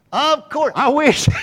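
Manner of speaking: high, loud mocking squeak. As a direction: answer yourself in a silly high voice. Mock self-reply.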